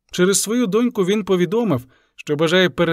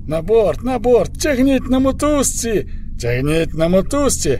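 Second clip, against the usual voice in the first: shouted orders; 6 semitones higher than usual. A narrator's reading. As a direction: bark the orders over the noise. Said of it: "другий помічник вигукнув".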